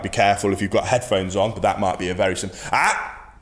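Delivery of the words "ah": sharp stern ah then a firm no; stern correction. Shown as a demonstration. Dog trainer demonstrating a stern correction to a barking dog. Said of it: "stern, deep, good vocal inflection".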